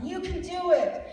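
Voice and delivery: high, loud cheering call; heavenly cheer. Retold or imitated. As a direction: cheer her on from the stands. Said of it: "cheering me on".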